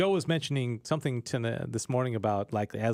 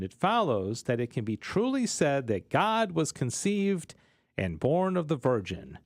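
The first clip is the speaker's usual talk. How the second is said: measured doctrinal reading; formal read-aloud with pauses between phrases. Acted. Reads a text aloud.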